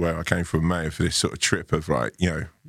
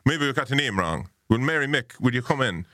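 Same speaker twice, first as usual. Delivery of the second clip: high, lilting Irish landlady; Irish landlady accent; 7 semitones higher than usual. Retold or imitated. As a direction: imitate the Irish hostess, pitched up. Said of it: "And she was like".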